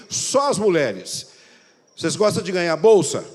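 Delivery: slow, loud questions to the women; preacher polling women in the room; loud crowd poll. Real, not acted. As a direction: call out each item to the crowd. Polls women in congregation.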